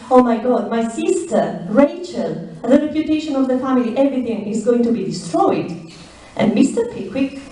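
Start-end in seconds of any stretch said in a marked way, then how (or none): 0.1-5.7 a rushed, mildly shocked cry about the family; astonished. Retold or imitated. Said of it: "he's astonished".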